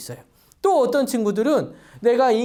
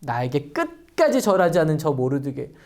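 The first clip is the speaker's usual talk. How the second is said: mildly angry Haman; 5 semitones higher than usual. Acted. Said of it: "막 화가 났어요".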